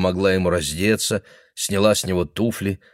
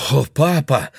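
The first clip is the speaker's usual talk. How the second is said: dismayed exclamation; 6 semitones higher, 3 dB louder than usual. Acted. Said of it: "воскликнула она".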